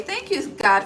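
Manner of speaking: high, loud burst of gratitude; real joyful relief; excited thanks. Real, not acted. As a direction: throw a happy thank-you upward. Cheering quick thanks to God.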